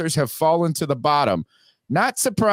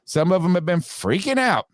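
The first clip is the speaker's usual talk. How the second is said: higher-pitched, flowing delivery; raised pitch; 5 semitones higher than usual. Real, not acted. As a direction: say it higher, in one run. First take before slowed repeat.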